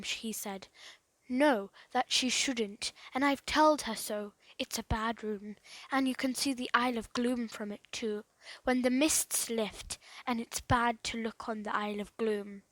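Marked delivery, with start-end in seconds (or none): 1.3-12.6 a hint of sullen dread; lightly voiced surly handyman. Joe warns the boys about the room, ominous.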